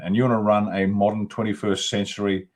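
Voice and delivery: ordinary delivery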